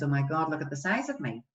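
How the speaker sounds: mildly downcast acted complaint; friend's self-criticism. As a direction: confide it with a touch of despair. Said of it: "my friend comes in and says".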